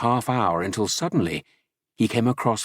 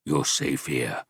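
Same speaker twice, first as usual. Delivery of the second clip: grunt; 6 semitones lower, slower than usual. A narrator's reading. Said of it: "grunted the big man".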